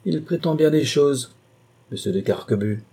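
mildly peevish marquis; ill-humoured. Acted. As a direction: say it in a bad humour. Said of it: "sur un ton de mauvaise humeur".

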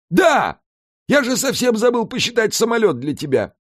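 high, startled outcry; sudden yell. A narrator's reading. Alfred at the monitor, suddenly yelling to Mika. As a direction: blurt it out in alarm. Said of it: "заорал не своим голосом".

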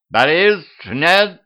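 high, loud alarmed cry; urgent high-pitched yell; screaming. A narrator's reading. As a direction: shout to stop him. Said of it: "закричала ведьма".

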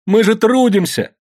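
high, loud, slow lament; wailing protest. A narrator's reading. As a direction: wail out each item as proof. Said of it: "Анфиса выла".

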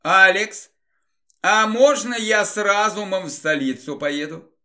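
lightly voiced elf girl, hopeful ask; a hint of a shy young elf; christmas elf. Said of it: "подошла эльфийка и спросила".

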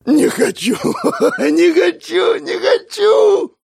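high, slow, hysterical wailing; hysterical whimpering. Acted. Young trainee sobs into his hand in terror, wailing. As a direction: wail it like a terrified boy. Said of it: "хныкал он себе в руку".

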